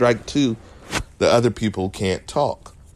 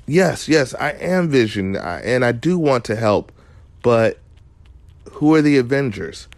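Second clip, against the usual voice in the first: a much higher, eager imitation of Vision; earnest hero voice, pitched up; imitating Vision; 6 semitones higher, 3 dB louder than usual. Vision answering frightened Agnes, earnest mock eagerness. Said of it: "And Vision says".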